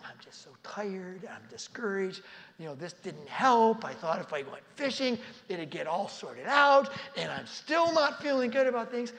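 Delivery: frustrated outburst. Acted. Tired fisherman venting to his friends, building to a shout. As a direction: let the frustration boil over.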